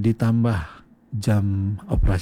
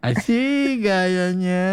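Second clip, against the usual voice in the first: higher, slow drawn-out tease; playful teasing; 7 semitones higher, much slower than usual. Real, not acted. Host teasing caller who walks everywhere, slow playful drawl. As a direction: stretch it out, mock-admiring.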